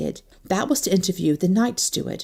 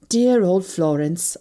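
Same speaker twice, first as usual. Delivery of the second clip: slow, lingering and fond; sentimental murmur; slower than usual. Acted. Anne mooning over Florence to trap the secretary, slow and sentimental. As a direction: sigh it out like a fond memory. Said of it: "I murmured sentimentally".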